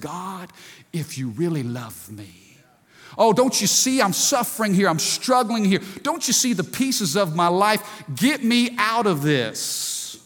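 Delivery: believer in hard season pleading with God; mock complaining prayer. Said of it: "where we said".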